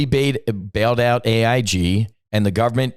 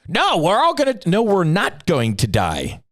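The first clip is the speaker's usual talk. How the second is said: mock panic; 7 semitones higher than usual. Mocking panicked crowd.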